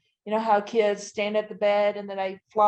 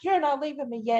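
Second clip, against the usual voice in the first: retold anger; 6 semitones higher than usual. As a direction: refuse to let him go, reliving it. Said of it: "and I get mad".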